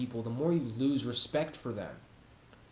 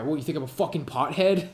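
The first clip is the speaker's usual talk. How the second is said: aggressive comeback; faster than usual. Retold or imitated. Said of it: "get aggressive and be like".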